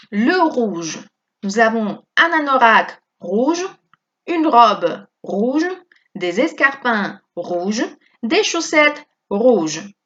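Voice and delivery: slow, careful model phrases for "rouge"; French pronunciation demo. Shown as a demonstration. Teacher modelling French phrases for Spanish students, slow and clear. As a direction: say each phrase slowly for students to copy. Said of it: "On prononce tout de la même façon".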